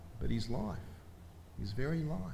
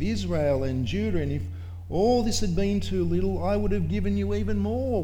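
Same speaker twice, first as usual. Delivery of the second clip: voice of God; 5 semitones higher, 4 dB louder than usual. Acted. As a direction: boom it out as God rebuking David, building to the end. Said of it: "This is what God said to David. He says".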